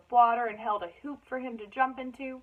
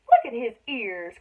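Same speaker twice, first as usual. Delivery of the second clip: mocking cry; 7 dB louder than usual. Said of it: "cried one boy".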